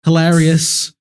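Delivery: deadpan "ha ha ha ha, hilarious"; robot laugh. Pretend. Mocking the owls swoop pun.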